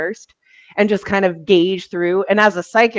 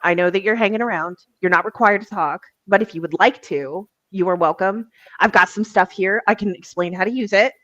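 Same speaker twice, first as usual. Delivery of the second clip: real chill. Retold or imitated. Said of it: "if you go in real chill".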